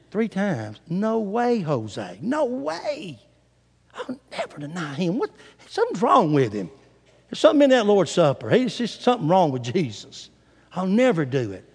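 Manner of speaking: hushed, scoffing aside with pitch swoops; muttered disbelief. Acted. Peter privately rejects Jesus's prediction of denial, muttering in disbelief. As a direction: grumble to yourself, refusing to believe it.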